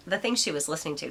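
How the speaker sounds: talking with a hair in mouth. Real, not acted. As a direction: say it around a hair stuck in mouth. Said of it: "sorry, I have a hair in my mouth".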